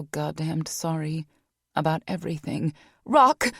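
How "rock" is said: higher, loud anguished cry; calling out in anguish. Acted. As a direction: cry his name as she runs. Vanessa cries out.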